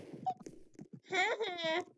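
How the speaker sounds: high-pitched short laugh; high giggle. Real, not acted. Troll after pushing someone, high giggle. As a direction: let out a high snicker.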